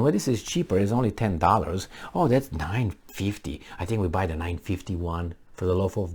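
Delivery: soft, low-key mock deliberation; ordinary penny-counting shoppers. Struggling couple pricing bread and milk, hushed mock deliberation. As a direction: fret quietly over small prices. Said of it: "That's the way we talk".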